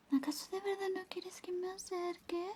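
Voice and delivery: soft pleading whisper. Acted. Whispering to the boyfriend, asking if he wants her near. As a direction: ask it in a coaxing hush. ASMR roleplay, whispering close.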